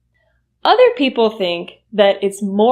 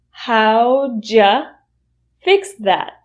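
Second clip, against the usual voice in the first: slow practice; much slower than usual. Shown as a demonstration. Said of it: "practice slowly".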